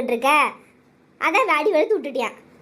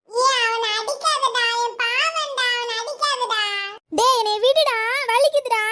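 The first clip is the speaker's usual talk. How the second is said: pained pleading; 5 semitones higher than usual. Acted. Children begging a boy to stop hitting, pleading.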